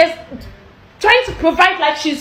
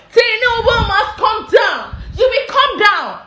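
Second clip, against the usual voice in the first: slow shouted demand; slower than usual. Real, not acted. Protest call against president.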